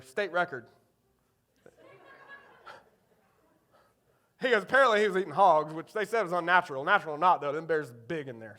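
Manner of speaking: matter-of-fact Eastern North Carolina hunter impression; thick Eastern North Carolina accent. Dad's friend advises loading the gun, Eastern North Carolina accent. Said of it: "he's got a thick Eastern North Carolina accent".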